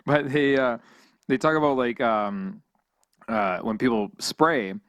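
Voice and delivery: talking around an ice cube; words slurred by ice in mouth. Real, not acted. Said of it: "I put a piece of ice in my mouth".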